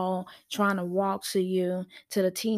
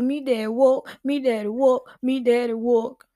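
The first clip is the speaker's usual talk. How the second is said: put-on toddler whining; 3 semitones higher, 5 dB louder than usual. Daycare toddler telling teacher about daddy, lightly voiced whiny child. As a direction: chant it like an upset little kid missing dad.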